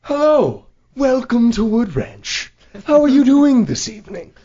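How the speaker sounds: exaggerated high customer-service voice; over-friendly server. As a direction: gush like a fake-cheery restaurant server. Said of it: "our server was just like".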